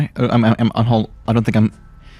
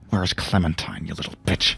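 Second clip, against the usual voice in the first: muttering; 6 dB quieter than usual. Acted. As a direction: mutter it under your breath. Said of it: "I mutter".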